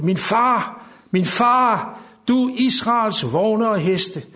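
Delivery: loud, high cry of grief, dragging the last phrase slowly; anguished cry. A narrator's reading. Elisha crying after Elijah, loud, high and slow. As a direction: call out to the departing father figure. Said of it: "Elisa så det og råbte".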